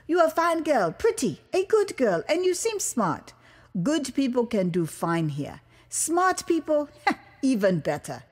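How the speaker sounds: a hint of a kindly official giving advice; lightly voiced Liberian official, fatherly. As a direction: official encouraging the American girl, lightly voiced. Official advises the American girl.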